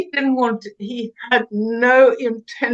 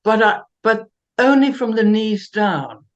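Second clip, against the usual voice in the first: laughing; 4 dB louder than usual. Real, not acted. Repeats joke laughing.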